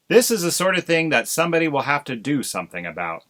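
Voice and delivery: fast, pompous declaration. Acted. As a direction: pronounce it importantly. Husband pompous pronouncement.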